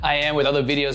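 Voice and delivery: sick, raspy voice; hoarse from being sick. Real, not acted. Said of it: "excuse my raspy voice".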